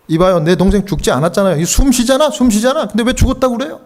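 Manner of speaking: a grieving brother's agitated denial; insistent grieving twin. Retold or imitated. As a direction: protest that he still breathes. Twin insists brother still breathes.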